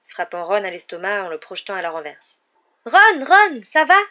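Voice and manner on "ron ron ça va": high, loud alarmed cry; yelled. A narrator's reading. Hermione calling to the fallen Ron, yelling. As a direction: call out in alarm. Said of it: "hurla Hermione".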